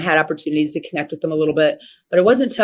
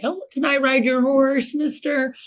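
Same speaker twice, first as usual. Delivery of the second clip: imitating a small girl asking a stranger; little girl asking; 8 semitones higher than usual. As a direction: ask like a shy kid wanting a ride. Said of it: "I'm like".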